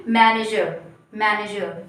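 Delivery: "मैनेजर" ending in an uh sound, no r; correct manager. Shown as a demonstration. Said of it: "अ के जैसे sound करना चाहिए".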